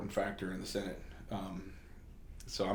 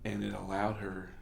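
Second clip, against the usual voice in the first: hushed, as if afraid to be overheard; low, like nobody's around; 2 semitones lower, 10 dB quieter than usual. Retold or imitated. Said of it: "starts talking, like, low, like nobody's around".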